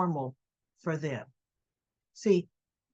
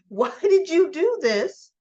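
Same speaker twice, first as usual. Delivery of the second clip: stern demand; 5 semitones higher, 6 dB louder than usual. Pretend. Voicing Valentine confronting Charlotte.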